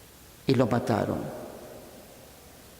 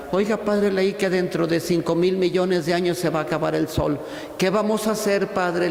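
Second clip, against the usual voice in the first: a light, higher old lady's worried voice, only lightly put on; a preacher imitating a fretful old woman, barely changing his voice; viejita preocupada; 3 semitones higher than usual. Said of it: "Decía la viejita al padre". (imitación ligera de una viejita preocupada)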